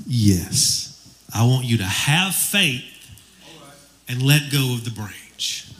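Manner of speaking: lightly voiced God, low and calm. God asks the jogger for faith, low calm voice. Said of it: "God says".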